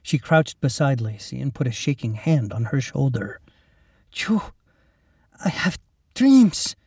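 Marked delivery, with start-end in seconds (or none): 4.1-6.8 put-on high, slow, husky Mexican accent; halting words in a husky Mexican accent; thick Mexican accent. A narrator's reading. Mexican woman recognizing Lacey, husky thick Mexican accent. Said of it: "the woman husked in a thick accent".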